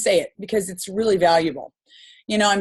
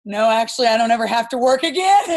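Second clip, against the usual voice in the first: raised, quick reply breaking into a laugh; bragging to the cashier through a laugh; laughing boast; 3 semitones higher, 4 dB louder, faster than usual. Retold or imitated. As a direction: tell the secret with a proud giggle. Proud answer with a laugh.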